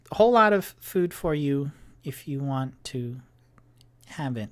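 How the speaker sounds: apologetic and eager, rushing the words; nervous Tipsy. Acted. Tipsy offers more food.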